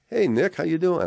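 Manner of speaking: high, loud hail to a friend; imitated enthusiastic greeting; excited greeting. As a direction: call out a hearty hello, acting out the other guy. Retold backstage greeting by friend.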